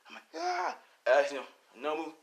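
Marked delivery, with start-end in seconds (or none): 0.4-0.8 high cry. Acted. Acted cry in the fight.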